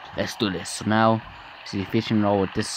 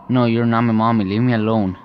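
louder, firm refusal; defiant child protest; 5 dB louder than usual. Acted. Daughter rejects the false mother, defiant protest. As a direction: push the false mother away with raised volume.

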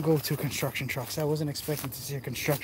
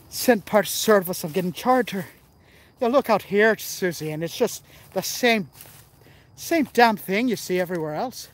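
put-on Irish accent; 2 semitones higher, 3 dB louder than usual. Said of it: "Let's try a little Irish".

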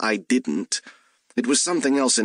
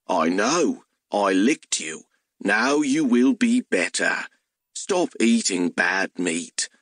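hellhound voice. Acted.

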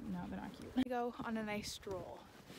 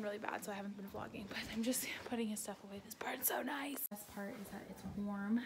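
whisper; 6 dB quieter than usual. Real, not acted. Whispering in the quiet barn.

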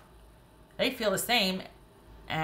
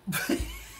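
high-pitched burst of laughter; amazed laugh; 3 dB quieter than usual. Real, not acted. Reader amazed by the cards drawn, amazed laugh.

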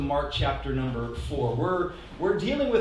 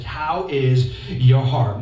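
each word drawn out and louder; slow pointed question; 3 semitones lower, 5 dB louder, much slower than usual. Shown as a demonstration. Pastor pressing the sermon's question on listeners, slow and emphatic. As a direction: linger on "How is your heart?" to land it. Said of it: "That's what Jesus is talking about".

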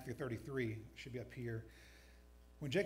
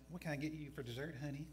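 lightly voiced Southern waitress, softer; Southern accent; 4 dB quieter, faster than usual. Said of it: "says in a southern accent".

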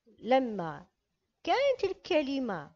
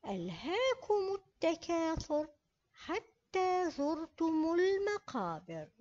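Quran recitation. Shown as a demonstration. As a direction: recite it carefully for the pupils. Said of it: "كيف نقرأ؟".

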